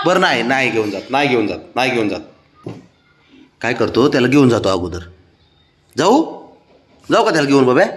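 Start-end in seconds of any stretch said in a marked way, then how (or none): 0.0-2.2 calming, repeated promise; soothing reassurance. Real, not acted. Giving in to the jealous one, soothing. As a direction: give in gently, pitch dropping.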